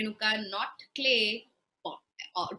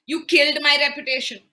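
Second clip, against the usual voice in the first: louder furious cursing; angry curse; 7 dB louder than usual. Acted. Husband cursing and banishing his wife, angrily. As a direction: hurl the curse at her. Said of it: "He loses it".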